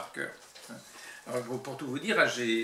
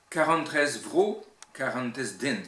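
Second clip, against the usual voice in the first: Breton verse with strong Cornouaille stresses; emphatic Cornouaille Breton recitation; Cornouaille Breton accent; 6 dB louder than usual. Shown as a demonstration. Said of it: "l'accent cornouaillais".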